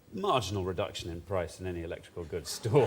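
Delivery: a touch of commanding voiceover man; Patrick Allen. Shown as a demonstration. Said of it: "very good sort of Patrick Allen".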